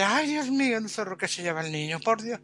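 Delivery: lightly voiced mother crying out in dismay; alarmed mother. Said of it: "y la madre".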